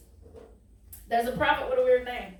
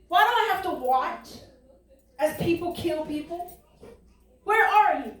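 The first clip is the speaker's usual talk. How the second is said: pleading prophet; 4 semitones higher than usual. Acted. Voicing Habakkuk's plea to God.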